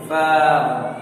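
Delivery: "फाउन" with a light F and open vowel; thin letter. Shown as a demonstration. Teacher showing this letter is thin, light "फाउन". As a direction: keep "फाउन" thin and unrounded. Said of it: "और ये बारीक है".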